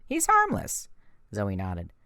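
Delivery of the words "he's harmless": protective plea. A narrator's reading. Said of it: "I said".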